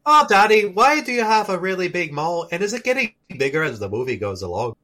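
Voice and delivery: child's question in mock Irish; Irish accent. Child asking Daddy about his mole, Irish accent. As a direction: play an Irish kid quizzing Daddy. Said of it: "it was just the accent".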